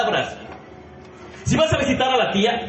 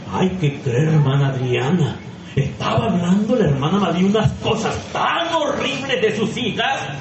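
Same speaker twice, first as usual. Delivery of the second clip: gossip voice; 3 semitones lower than usual. Retold or imitated. Gossiping sister voiced in sermon example.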